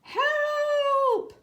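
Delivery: high, loud cartoon cry for help; hammed-up little spider yell; mock scream for help. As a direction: shriek it like a tiny panicked spider. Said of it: "ran screaming from the room".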